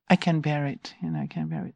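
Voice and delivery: quiet, steady mantra; gentle mantra. Retold or imitated. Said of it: "It was like a mantra".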